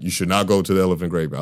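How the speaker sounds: lightly voiced Mufasa, quick and unimpressive; weak Mufasa quote. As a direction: hand it off like a weak movie line. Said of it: "And when he said".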